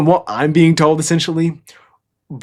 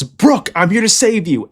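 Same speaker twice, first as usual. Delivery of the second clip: mock heroic shout; 7 semitones higher than usual. Ruvan arrives to save Brook, mock heroic shout. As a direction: call out like an arriving rescuer. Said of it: "and he shouts".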